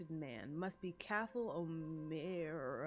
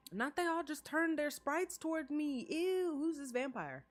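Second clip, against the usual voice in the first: higher, louder indignant reaction; louder and higher, half-joking outrage; excited outburst; 8 semitones higher, 5 dB louder than usual. Real, not acted. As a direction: react with loud mock offense. Reacting to characters staring.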